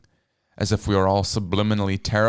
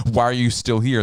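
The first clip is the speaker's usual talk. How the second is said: raised, louder angry challenge; angry demand; 4 semitones higher, 5 dB louder than usual. Acted. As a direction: push her away with the question. Matt's angry tirade at Katrina.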